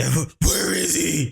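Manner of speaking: rough, loud, ground-out delivery. Showing how playing a Batman game makes the voice come out: Batman voice. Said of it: "That Batman voice".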